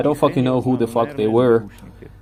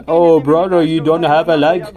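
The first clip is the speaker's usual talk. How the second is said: higher, louder voice of disbelief; mock-amazed outburst, pitched up; acted astonishment; 6 semitones higher, 7 dB louder than usual. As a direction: imitate a startled man's raised question. Acted reaction to the missing leg.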